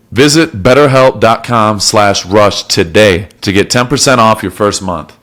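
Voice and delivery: measured, scripted podcast ad read; host-read promo with deliberate pauses; sponsor ad read. Real, not acted. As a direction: read the sponsor copy clearly, phrase by phrase. Reads a sponsor message.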